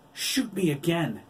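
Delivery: high, loud defiant yell. A narrator's reading. Wolf dares the doctor to fire, yelling. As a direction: yell it as a furious dare. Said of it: "Billy yelled".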